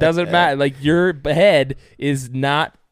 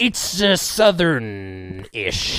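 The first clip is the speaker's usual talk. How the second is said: pirate voice; 2 semitones higher, 3 dB louder, slower than usual. Pretend. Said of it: "pirate guy".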